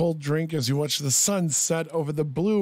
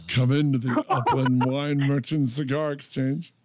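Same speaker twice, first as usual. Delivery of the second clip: seductive lower voice, a touch of laughter; porn star voice; 5 semitones lower than usual. Acted. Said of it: "the speaker's porn star voice".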